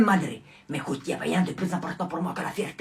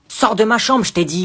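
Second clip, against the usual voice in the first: shouted order; 5 semitones higher, 12 dB louder than usual. Acted. Ordering cousin out.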